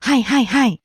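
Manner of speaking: repeated はい to show you are listening; listener's affirming はい, not asking; attentive backchannel. Shown as a demonstration. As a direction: say はい in a quick string, as acknowledgement. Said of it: "let the other person know that they're listening".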